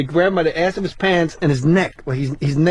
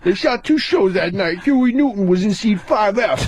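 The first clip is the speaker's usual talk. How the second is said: Tracy impression; 2 semitones higher than usual.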